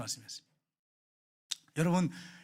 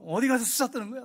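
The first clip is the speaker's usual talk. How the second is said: irritated grumble; 5 semitones higher, 3 dB louder than usual. Retold or imitated. Angry husband grumbling about absent wife.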